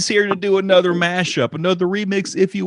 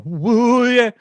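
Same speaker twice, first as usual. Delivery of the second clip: hype jingle; 9 semitones higher, 4 dB louder than usual. Pretend.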